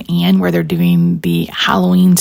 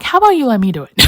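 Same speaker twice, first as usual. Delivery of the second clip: friend's offer; 4 semitones higher, much faster than usual. Retold or imitated. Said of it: "She's like".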